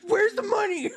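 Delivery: giggling mock demand; lightly voiced laughing thief; bandit voice. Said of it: "She's like".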